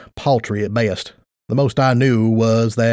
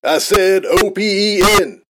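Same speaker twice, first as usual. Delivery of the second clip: slow, loud, spelled letters; 7 semitones higher than usual. Acted. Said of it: "he said loudly".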